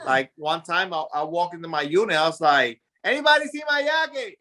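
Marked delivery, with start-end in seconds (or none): 3.0-4.3 put-on high-pitched question in a thick Spanish accent; Spanish accent, "jacket" said as "yake"; old Spanish accent. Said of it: "I still have the accent".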